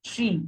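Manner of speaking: "tree" on its own with a long ee; long vowel. Shown as a demonstration. Teacher repeating the right example, long vowel. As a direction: hold the ee in "tree". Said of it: "we use the longer one".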